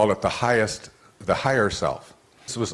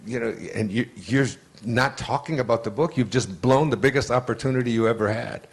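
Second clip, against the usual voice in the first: mock angry scolding, higher pitched; retold anger; 4 semitones higher than usual. Agent berates him for blowing the meeting, mock angry. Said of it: "He was so angry at me".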